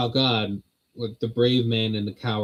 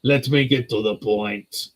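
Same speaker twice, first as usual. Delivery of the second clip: put-on slow, heavy Austrian accent. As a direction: Austrian accent, drawn out slowly. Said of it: "Do it in the classic Austrian accent".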